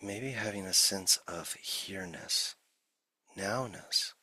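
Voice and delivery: unhurried meditation guide with long silences between phrases; guided meditation. Acted. Teacher settling listeners into the body, guided meditation. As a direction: ease listeners gently into stillness, leaving long pauses.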